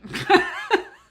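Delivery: high, loud burst of laughter; embarrassed laugh. Real, not acted. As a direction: crack up at your own attempt. Laughs at own bad accent.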